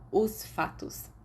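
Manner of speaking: slow whispered aside. Acted. Remus organising his thoughts, slow whisper. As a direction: breathe it out under your breath.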